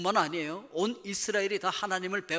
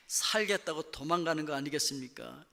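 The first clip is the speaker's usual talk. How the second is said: ordinary talk, nothing marked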